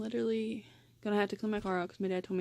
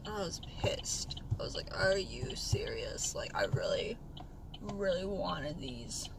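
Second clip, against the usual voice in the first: annoyed whisper; 3 semitones lower, 7 dB quieter, slower than usual. Real, not acted. Annoyed at the hardware store.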